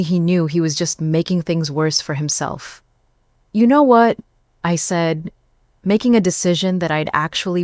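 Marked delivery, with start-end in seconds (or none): 3.5-4.2 decisive. Acted. Decisive interruption.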